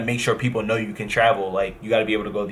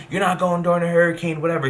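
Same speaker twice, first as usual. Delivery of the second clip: higher, curt mock of mom cutting him off; mom snapping; 7 semitones higher than usual. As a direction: imitate mom's snap. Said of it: "She's snapping".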